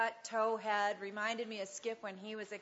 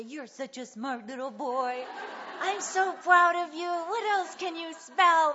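rising higher and louder, slowing into eager praise; imagined praise for the little boy, growing eager and louder; encouraging praise; 7 semitones higher, 9 dB louder than usual. Pretend. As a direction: hype up a small child's spelling. What she wished to tell boy.

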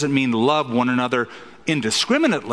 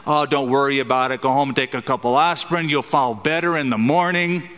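breezy reassurance. Retold or imitated. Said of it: "if the doctor said".

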